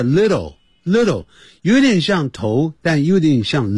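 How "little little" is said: "little" flapped, lero-lero; correct little. Shown as a demonstration. 老师示范含混的little发音. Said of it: "叫little，little".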